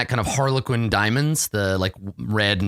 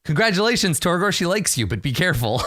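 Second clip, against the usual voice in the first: congratulating servants; 6 semitones higher, faster than usual. Acted. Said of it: "kind of looks and s-, like, smiling".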